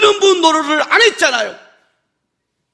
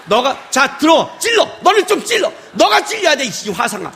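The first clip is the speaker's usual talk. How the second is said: raised-pitch exasperated telling-off; mock scolding. Preacher scolding an unmoved church member, mock exasperation. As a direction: nag them to finally feel convicted.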